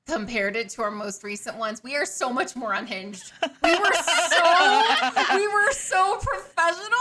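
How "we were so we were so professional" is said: laughing. Real, not acted. Mock recalling their old polish.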